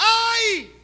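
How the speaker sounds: high, loud "Ai!"; anguished cry. Acted. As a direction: cry out in holy fear. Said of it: "ele fala".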